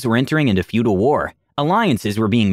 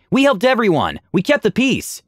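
raised shout; 10 semitones higher than usual. Acted. Aura shouting at crowd.

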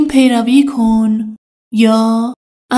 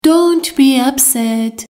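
slow model sentence; slower than usual. Shown as a demonstration. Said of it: "teacher models an English sentence".

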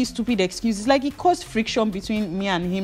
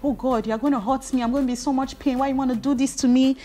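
whiny pleading, higher pitched; mock crying heart; 5 semitones higher than usual. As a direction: whimper like a hurt heart begging. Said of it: "The heart was crying like".

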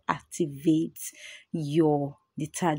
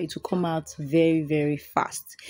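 tired voice; 4 dB quieter than usual. Real, not acted. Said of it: "forgive my tired voice".

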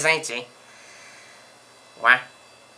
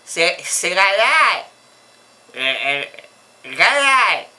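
raised voice, name drawn out; calling out his name; 2 semitones higher, 5 dB louder, much slower than usual. Acted. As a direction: raise your voice to get through on the phone. Répète son nom au téléphone. (nom lancé fort au téléphone)

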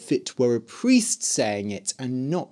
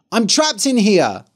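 trapped shout; 8 semitones higher, 6 dB louder than usual. Acted. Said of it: "banging on the door".

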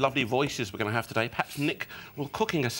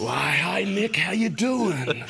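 mock flirty greeting; 4 semitones higher, 3 dB louder, much slower than usual. Mock husky greeting to guest.

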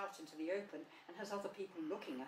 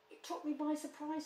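high, flustered little voice; nervous; 9 semitones higher, 5 dB louder than usual. A narrator's reading. Piglet answering Rabbit after the fright, nervous. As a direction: answer high and a bit rattled. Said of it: "said Piglet nervously".

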